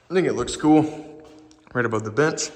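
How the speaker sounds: breathless after climbing; panting a little between words; out of breath. Real, not acted. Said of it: "Sorry, I'm a little out of breath".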